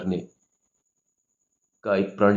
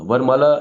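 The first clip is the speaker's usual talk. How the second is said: वरमाला raised and louder, rising at the end; emphatic word; 4 semitones higher, 5 dB louder than usual. Shown as a demonstration. Teacher underlining the key word for the class. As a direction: stress वरमाला with a lifted ending. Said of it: "शादी मतलब वरमाला".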